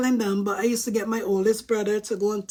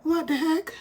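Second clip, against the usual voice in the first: shocked mom; 6 semitones higher than usual. Retold or imitated. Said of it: "still in her kitchen shock".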